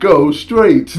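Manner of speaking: laughing. Retold or imitated. Repeating clip line while laughing.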